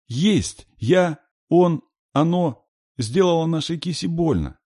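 put-on very high, loud, halting child; high-pitched frightened child's outburst; shrieking little girl. A narrator's reading. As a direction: squeal it out in fright, stumbling. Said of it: "взвизгнула Катюша".

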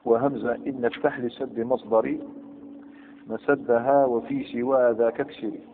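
slow chanted reading of a grammar verse; slow measured recital of Alfiya verse; verse recitation. Shown as a demonstration. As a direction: intone the poem line slowly. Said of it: "قال".

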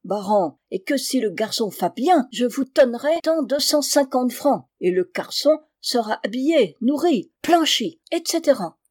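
thick German accent, French words softened and devoiced. German recruiter coaxing father Thomas, in a thick German accent. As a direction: play a German gentleman bargaining in heavy German-accented French.

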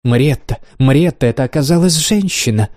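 bright, high, overjoyed; radiant joy. Acted. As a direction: burst out with glee. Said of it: "сияя от радости". (сияя от радости)

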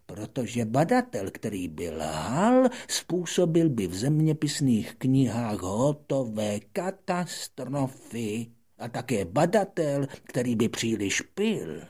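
put-on high, loud lecturing old scholar; a self-important old man explaining his trade; old geographer lecturing the little prince, self-important; pompous geographer.

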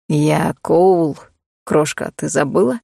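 deep, relaxed man's voice; low male voice. Acted. Cole tells the startled heroine who he is, low male voice. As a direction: drop low, easy and amused.

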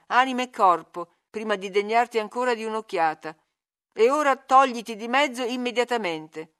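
Ayrton enraged. Acted. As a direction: drive her away in fury. Ayrton furiously rejects Catherine. (Ayrton respinge Catherine con rabbia, più forte)

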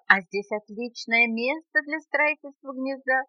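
a hint of birdsong in the speech; singsong bird. A narrator's reading. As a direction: sing it out lightly. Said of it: "пропела неизвестно откуда появившаяся птичка".

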